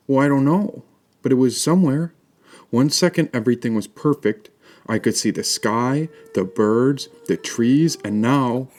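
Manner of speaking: put-on a lost child holding back tears; boy voice welling up; upset little boy. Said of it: "he burst out in tears".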